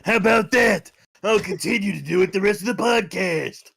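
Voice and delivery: cocky shouty delinquent; Kuwabara voice. Pretend. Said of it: "my Kuwabara voice".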